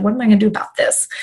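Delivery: fast worried inner voice; racing thought. Retold or imitated. Mom racing through options mid-training, fast worried thought. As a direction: rush the thought out. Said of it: "thinking in the back of my head".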